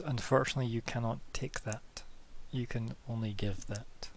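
lightly voiced, solemn refusal; polite game character. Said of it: "He smiles and he says".

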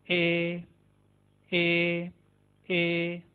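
"ए" said as in red; Turkish E. Shown as a demonstration. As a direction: open short "ए" like red. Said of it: "जैसे रेड के अंदर". ("ए" रेड वाली आवाज़ में)

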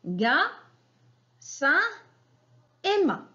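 ga, sein, ma each said apart, rising on "ma"; syllables repeated. Shown as a demonstration. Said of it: "Je répète". (syllabes détachées)

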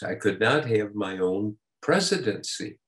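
a touch of retold plaintiveness; mildly plaintive. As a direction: quote him with a slight pleading ache. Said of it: "in this plaintive voice".

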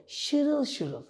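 trickling water imitation. Shown as a demonstration. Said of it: "Şırıltı".

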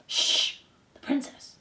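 hushing, secretive whisper; shush, then whisper it. A narrator's reading. Threadmaster hushing Despereaux about the princess, whispering. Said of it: "the threadmaster whispered".

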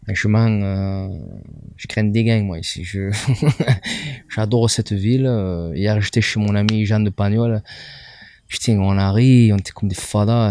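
lightly put-on Marseille accent. Shown as a demonstration. Comic answering the host's question about Marseille, Marseille accent. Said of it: "Marseillais, québécois et".

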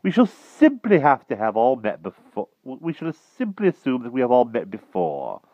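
high, emphatic blustering knight; decided King Pellinore. A narrator's reading. King ends the round of introductions, decided.

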